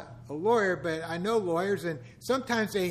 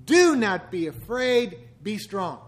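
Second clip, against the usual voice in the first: God's command; 6 dB louder, slower than usual. Acted. Quotes God commanding courage.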